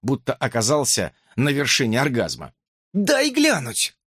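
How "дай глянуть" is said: very high, slow squeak; Justin squeaking. A narrator's reading. Justin pushes in to see, high squeaky plea. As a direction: plead to get a look. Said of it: "пропищал Джастин".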